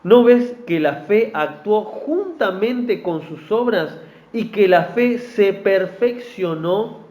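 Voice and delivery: slow, deliberate Bible reading; scripture reading. Acted. Preacher reading scripture to the congregation, slow and deliberate. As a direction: read the verses slowly to the church. Preacher reads James aloud.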